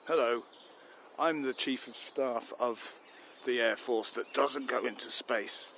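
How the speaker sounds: a self-important military chief, announcing himself; pompous general. Acted. Air Force chief introduces himself to the minister, bluster. Comic general bursts in angrily.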